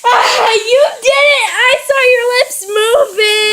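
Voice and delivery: excited, high accusing shout; loud accusation. Real, not acted. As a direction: call it out, catching them in the act. Excited accusation of catching mom out.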